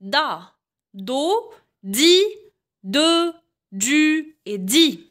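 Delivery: "دا، دو، دي، دو، دو et di" as French da, do, di, de, du, di; teacher reciting "دا، دو، دي" and on, pausing after each; pronunciation drill. Shown as a demonstration. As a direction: sound out each d syllable slowly, from "دا" to "di", vowels held. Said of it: "تابعوا معايا النطق".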